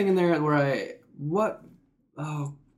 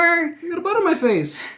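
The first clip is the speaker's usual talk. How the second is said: squeaky joke voice; 5 dB louder than usual. Pretend. Joking about his butt chin.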